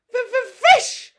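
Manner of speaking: very high, loud, stammering little dragon hiss; hissed dragon demand. A narrator's reading. Little dragon hissing at Hiccup for fish. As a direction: hiss it out like a tiny greedy dragon.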